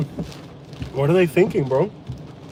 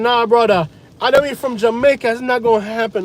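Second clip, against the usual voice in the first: mocking a local; 6 semitones higher than usual. Mimicking a local who shrugs off the hurricane, higher voice. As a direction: lightly put on a laid-back local. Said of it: "They're like".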